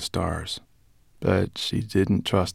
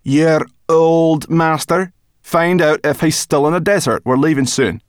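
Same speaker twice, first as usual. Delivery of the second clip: high, loud chirpy brownie; high brownie voice, talking with her mouth full; 10 semitones higher, 10 dB louder than usual. Acted. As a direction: pitch her up into a bright little creature. Sorrel voiced.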